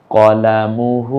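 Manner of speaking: শাহিদা stretched syllable by syllable, each vowel held long; slow drawn-out reading. Shown as a demonstration. Teacher to learners, showing the joined word, very slow. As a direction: draw out শাহিদা slowly and clearly. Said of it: "এটা হলো হু".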